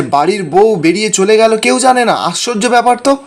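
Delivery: half-acted yell of disbelief; mock shouting. Father-in-law yells that the daughter-in-law left unnoticed. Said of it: "রাজীববাবু তখন চিৎকার করে বলছে".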